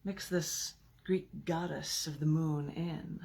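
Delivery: slow, measured reading of a sinister poem; deliberate villain monologue reading. Acted. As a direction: savor each line like a poisoner's boast. Reads second villain persona poem.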